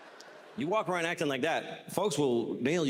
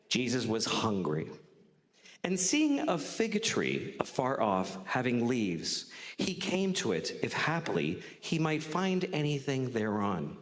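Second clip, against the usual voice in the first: scripture reading; 3 semitones lower, slower than usual. Acted. Reads scripture aloud.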